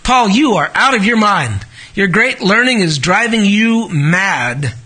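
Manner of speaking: understated retold outburst, slowing at the end; loud voice. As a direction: imitate a loud outburst with restraint. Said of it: "said in a loud voice".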